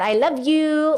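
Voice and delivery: cute pet-talk I love you. Pretend. Talking to the cat, light cute affection. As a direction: say it sweetly like to your cat. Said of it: "the same kind of way I talk to my cat".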